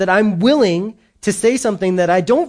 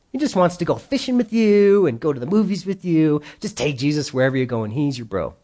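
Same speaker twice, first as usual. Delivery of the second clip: mock churchy buddy talk. Churches' breezy buddy Jesus pitch.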